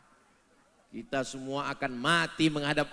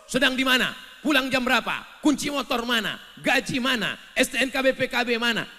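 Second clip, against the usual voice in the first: loud, higher quoting of the wife's questions; nagging wife; 8 semitones higher, 9 dB louder, faster than usual. Retold or imitated. Husband quotes his wife's nagging, higher and louder. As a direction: rattle off the questions impatiently. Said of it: "selalu bertanya terus".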